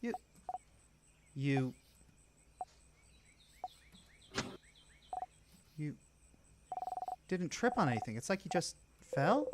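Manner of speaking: a hint of an alarmed companion; worried girl character. Bonnie questioning her friend about the fall, worried.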